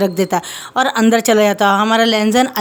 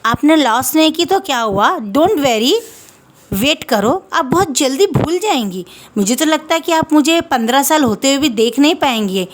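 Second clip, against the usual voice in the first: put-on little girl voice; 4 semitones higher than usual. Little girl teases him.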